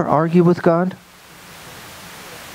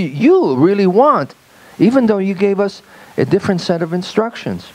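raised, earnest defence of his choice; self-justifying Saul; 6 semitones higher than usual. Retold or imitated. Saul justifies himself to God, raised and earnest. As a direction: argue it's all perfectly logical, pitched higher.

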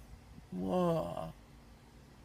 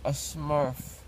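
numb from the dentist. Real, not acted. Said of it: "my face is like a Smurf".

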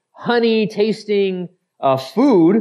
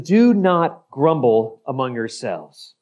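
solemn reading; 5 semitones lower than usual. Acted. Reading Jesus' words slowly, low.

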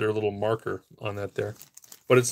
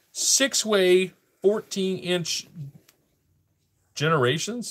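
"Six-way, fourteen inch" slow and higher; reading off a label; 8 semitones higher, slower than usual. Real, not acted. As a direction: draw out "Six-way, fourteen inch" as you decipher it. Reads item's label, then repeats it.

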